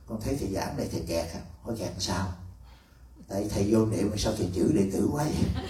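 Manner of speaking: a laughing, teasing question from the disciple. Retold or imitated. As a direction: tease the master through a laugh. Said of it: "Tôi nói". (đệ tử vừa cười vừa trêu thầy)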